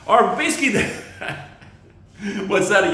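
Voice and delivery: high laughing squeal. Real, not acted. Comic laughing at his own rambling notes, high and loud. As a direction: crack up mid-sentence.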